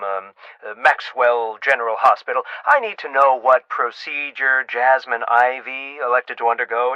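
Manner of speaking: lightly voiced doctor, halting, then pressing; a hint of an officious doctor, stumbling over the introduction; self-important doctor. Doctor phoning for a patient's procedure, hesitant, then urgent.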